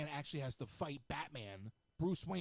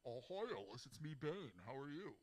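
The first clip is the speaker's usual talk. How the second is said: mournful sad clown whine; 8 dB quieter than usual. Retold or imitated. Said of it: "He sounded like a sad clown".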